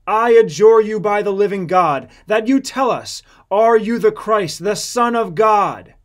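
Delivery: booming demand; solemn adjuration. Acted. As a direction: thunder the oath at him. High priest adjures Jesus.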